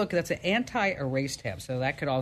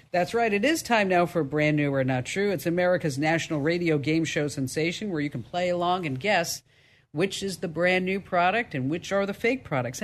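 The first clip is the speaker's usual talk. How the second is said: louder, punchy game show announce; game show host; 3 dB louder than usual. Acted.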